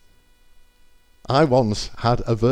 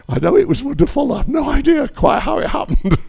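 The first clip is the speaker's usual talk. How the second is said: higher and laughing through it; laughing disbelief; 4 dB louder than usual. Real, not acted. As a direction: marvel at it with a laugh. Still amazed, laughing.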